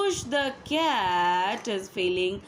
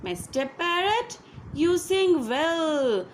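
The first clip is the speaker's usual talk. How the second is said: higher, fast wheedling cat voice; hungry cat flattering; 5 semitones higher, faster than usual. Acted. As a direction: sweet-talk the parrot like a sly cat. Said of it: "Push says".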